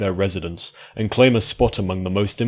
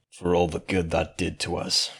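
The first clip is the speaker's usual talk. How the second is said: muttered; 2 semitones lower, 5 dB quieter than usual. Acted. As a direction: grumble it under the breath.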